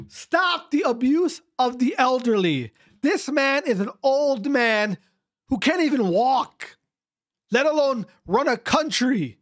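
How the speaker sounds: worked up and emphatic; getting heated. Real, not acted. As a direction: plead the case with mounting outrage. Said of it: "I'm getting heated here".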